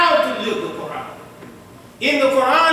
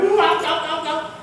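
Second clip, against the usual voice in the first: mock moans; 6 semitones higher than usual. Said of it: "Now I'm hurting like heck too".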